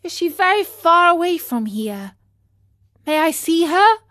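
eager, breathless questions, high and loud; tumbling questions. Acted. Pinocchio begs the snail for news, urgently. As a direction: rush each question out in hope. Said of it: "all these questions, tumbling out one after another".

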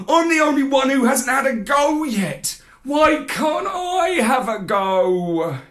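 eager pleading. A narrator's reading. Pup pleading for a turn.

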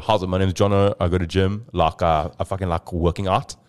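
light, casual South African bloke; chatty South African accent; white South African accent. Acted. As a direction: rattle off a South African introduction. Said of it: "South African white people are like".

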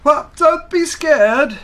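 high, bright bug creature; a friendly insect greeting. Acted. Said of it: "said the insect".

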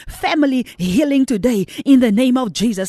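fervent pulpit declaration; preaching at full force. Acted. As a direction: declare it over every house.

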